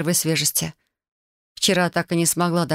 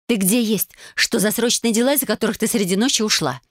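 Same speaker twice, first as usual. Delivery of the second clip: worried friend voice; 5 semitones higher than usual. Acted. Lenka's worried voice.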